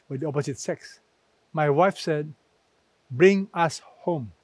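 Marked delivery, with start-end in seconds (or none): 3.1-4.3 slow, firm insistence; steady, unbending request to go home. Retold or imitated. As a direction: say it slowly and leave no room to argue. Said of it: "She was very firm".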